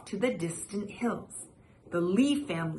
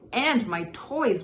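whining; 3 semitones higher than usual. Acted. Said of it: "whined the boy".

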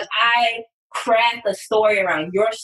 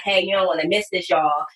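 own casual voice; 2 semitones lower than usual. Shown as a demonstration. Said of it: "if I say it in my voice".

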